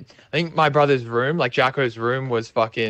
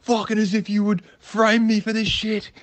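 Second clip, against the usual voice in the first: high-pitched indignant imitation; worked-up mock outrage, high; getting worked up; 8 semitones higher than usual. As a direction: imitate a friend protesting his innocence, voice pitched way up. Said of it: "just G'ing up and going".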